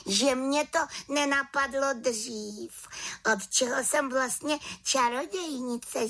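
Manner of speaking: little witch, high and eager; a young witch coaxing her friend out, pitched high; high voiced little witch, keen to fly. Witch delighted, offers spell.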